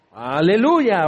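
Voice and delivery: drawn-out, swooping mock preacher's holler; imitated preacher's shout. Preacher imitates the young Levite's way of shouting, mock holler. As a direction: mimic a shouting preacher, voice sliding upward. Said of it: "su forma de gritar".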